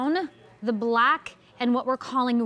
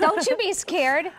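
slow, reassuring, a bit higher; 5 semitones higher than usual. Real, not acted. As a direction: coax her gently. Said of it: "I'm scared".

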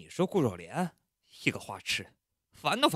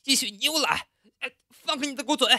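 high, loud playful telling-off; mock scolding; 5 dB louder than usual. Pushing off his teasing roommate, loud playful scolding. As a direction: scold him half in jest.

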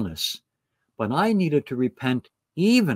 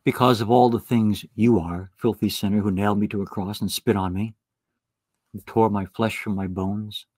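a hint of bitter reproach, lower; mock accusation; 5 semitones lower than usual. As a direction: list the sins like a wounded accuser. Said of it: "he would not say".

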